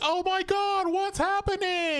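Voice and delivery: high, slow panicked woman; mock panic. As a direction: play a frightened woman, drawn out. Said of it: "she's like".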